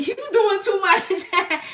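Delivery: slow, loud, high laughing scold. Real, not acted. Streamer laughs at a viewer overdoing it, loud and slow. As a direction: laugh it out slowly.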